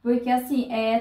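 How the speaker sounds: usual speaking voice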